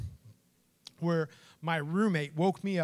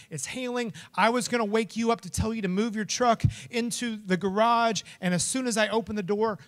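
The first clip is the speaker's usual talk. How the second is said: retold frantic explanation, pitched up; 4 semitones higher than usual. Roommate explaining how the dog escaped, frantic. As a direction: rush through the bad news without a break. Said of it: "He's frantic".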